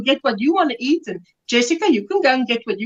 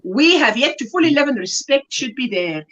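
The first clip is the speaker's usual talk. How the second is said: put-on a light South African accent; light South African lilt. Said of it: "Kim sounds like in a South African accent".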